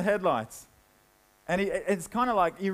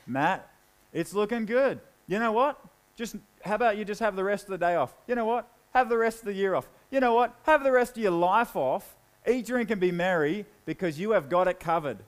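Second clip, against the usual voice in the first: smug self-congratulation. Acted. Rich man checking accounts, smugly rewarding himself. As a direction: lean back and gloat over the bank balance.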